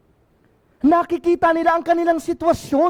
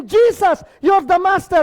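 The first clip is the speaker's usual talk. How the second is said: shouted plea; 3 semitones higher than usual. Acted. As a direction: shout it out to the Master. Preacher voices lepers' call.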